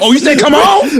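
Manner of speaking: high, hammed-up country man; comic high-pitched country fussing; country accent. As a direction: scold in a put-on country accent. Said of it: "Why is it always go to a country accent".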